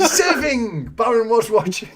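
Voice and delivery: high, pleased outburst; excited cheer. Real, not acted. Host spots Baron's right answer, excited cheer. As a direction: call out the winning answer with glee.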